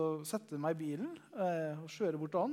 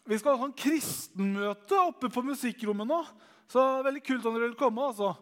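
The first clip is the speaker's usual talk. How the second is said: calling out to a crowd; 8 semitones higher, 10 dB louder than usual. Retold or imitated. Brother on the cafeteria table calls everyone to a meeting, loud high shout. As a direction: bellow it like a boy on a tabletop. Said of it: "klapper det igjen og bare".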